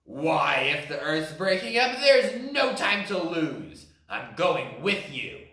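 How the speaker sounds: elephant voice. Acted. Elephant decides to flee.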